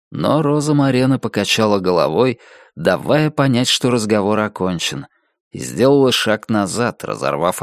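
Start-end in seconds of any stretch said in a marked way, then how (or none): none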